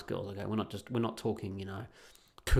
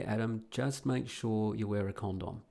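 softly imitating a discreet word of advice; quiet warning; 5 dB quieter than usual. Regular warns him as he leaves with two cougars, quietly. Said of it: "said to me very quietly".

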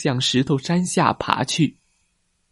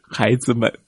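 tired smile; 4 dB quieter than usual. Acted. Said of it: "露出了微笑".

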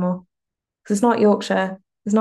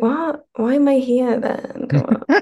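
mock indignation; 4 semitones higher than usual. Mock indignation at missing records.

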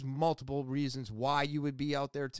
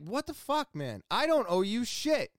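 heated retort; 5 semitones higher than usual. Retold or imitated. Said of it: "I got really heated".

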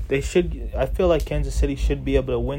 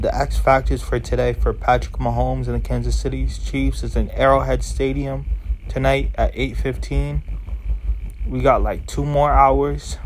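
on a massage chair. Real, not acted. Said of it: "I'm in the massage chair right now".

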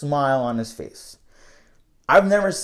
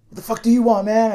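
higher-pitched imitated challenge; aggressive retort; 8 semitones higher, 4 dB louder than usual. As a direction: imitate an irritated man confronting someone. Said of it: "an aggressive look".

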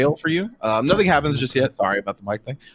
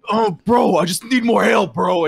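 acted plea, pitched up; higher-voiced mock desperation; pleading bro; 7 semitones higher, slower than usual. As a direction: beg like a struggling competitor. Losing player voiced mid-game.

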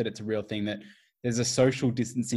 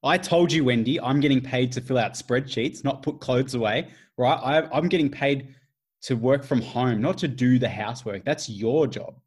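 heated husband; 2 semitones higher, 5 dB louder than usual. Acted. Acted marital quarrel.

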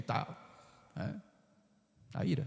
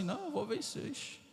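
put-on higher, cocky boy's boast; young David boasting; 5 semitones higher than usual. Priest voicing David before Goliath, lightly boastful. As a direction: brag like a bold shepherd boy. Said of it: "Davi falando assim".

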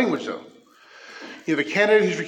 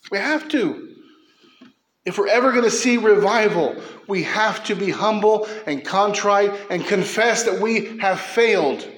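fervent preaching; 4 semitones higher than usual. Real, not acted. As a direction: press the call to repent hard. Pastor pleading for revival.

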